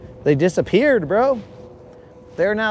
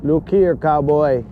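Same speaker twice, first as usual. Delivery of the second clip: a light, badly faked German villain accent; tossed-off fake German villain accent; terrible villain accent; 2 semitones lower than usual. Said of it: "that's a terrible accent".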